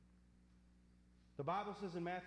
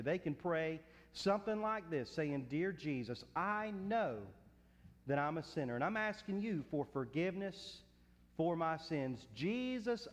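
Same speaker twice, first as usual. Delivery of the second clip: loud, earnest pastoral prayer over the church; fervent prayer; 3 semitones lower, 7 dB louder than usual. Acted. Pastor praying aloud over the congregation at invitation, fervent and loud. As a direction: pray it out full-voiced for the congregation.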